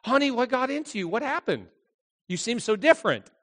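lightly voiced concerned mom; puzzled mother. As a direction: gently ask as a baffled mother.

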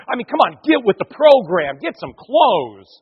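high-starting, emphatic nagging; exasperated urging. Acted. People urging Samuel to modernise, exasperated nagging. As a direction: push him impatiently to catch up.

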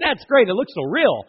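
put-on kids cheering. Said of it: "They're going".

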